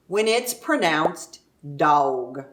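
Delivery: dawg said slow and long in Texas style; drawn-out Texan dawg; drawled dawg. Shown as a demonstration. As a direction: stretch out dawg. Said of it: "pronounced dawg".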